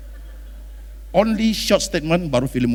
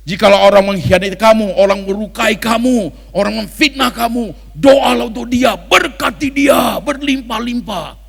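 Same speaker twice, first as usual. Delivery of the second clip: louder, slow pastor's declaiming; preaching the verse; 2 semitones higher, 5 dB louder than usual. Retold or imitated. Preacher mocking a pastor reading a verse, louder and slow. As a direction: read it like a pastor from the pulpit. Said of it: "Alkitab menulis".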